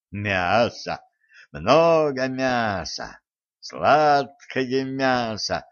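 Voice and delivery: slow, gloating feast cry; gleeful spirit voice. Acted. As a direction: savour the feast, greedy and slow. Spirits rejoicing over a feast.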